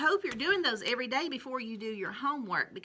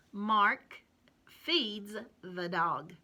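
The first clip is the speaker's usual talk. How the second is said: slow reading aloud; much slower than usual. Shown as a demonstration. Teacher rereading the sentence slowly for children. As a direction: Mark feeds the dog read slowly, feeds stretched. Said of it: "I'll read it with you".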